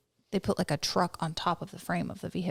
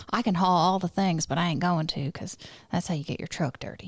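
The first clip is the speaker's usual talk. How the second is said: mock Southern truck-lover voice; Southern drawl. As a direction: play a proud Southern truck owner. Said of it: "a super Southern drawl".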